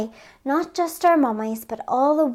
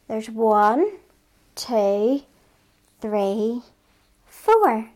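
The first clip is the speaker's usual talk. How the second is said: put-on counting along slowly with kids; teaching a child to count; much slower than usual. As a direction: count it out for little ones.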